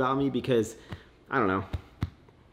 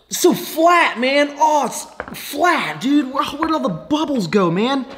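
high-pitched, drawn-out whiny complaint; mock lament; 11 semitones higher, 3 dB louder, slower than usual. Drinker mourning the lost fizz, mock lament. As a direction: whine theatrically about a ruined drink. Acted lament over flat soda.

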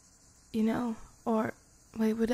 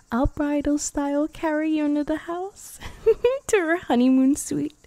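laughing; 5 semitones higher, 6 dB louder than usual. Acted. Playful promise, laughing through it.

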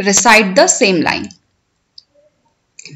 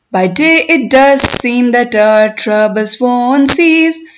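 poem recitation. Shown as a demonstration. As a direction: recite it for learners, stretching the words, lifting line endings. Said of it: "I will recite the poem".

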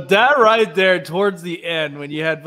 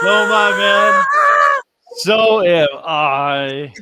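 excited shout; 3 semitones higher, 8 dB louder, slower than usual. Real, not acted. Shouted reply.

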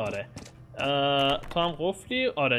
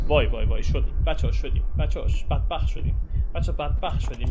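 panicked; 2 semitones lower, 5 dB louder than usual. Real, not acted. Panic, doomed.

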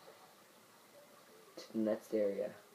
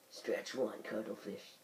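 quiet correction; 6 dB quieter than usual. Shown as a demonstration. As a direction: say it again quietly, flatly. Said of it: "That's what I meant to say".

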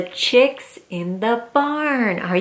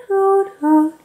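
owl hoots; 8 semitones higher than usual. Acted. Reading to a child, hooting like an owl. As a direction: hoot it like an owl.

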